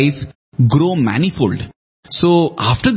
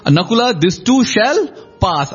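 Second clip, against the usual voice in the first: calm reply; 6 semitones higher than usual. Acted. Yudhishthira answers Nakula.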